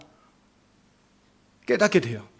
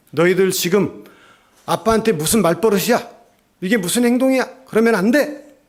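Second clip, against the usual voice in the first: a mother's stern rebuke, rising higher and louder; firm scolding; 4 semitones higher, 4 dB louder than usual. Retold or imitated. Mother sternly scolding the children for rudeness, louder and higher. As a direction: scold the kids firmly for talking back. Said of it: "단호하게".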